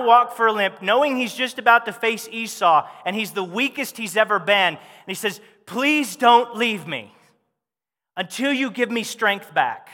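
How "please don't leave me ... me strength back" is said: pleading. Acted. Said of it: "He was begging for his life".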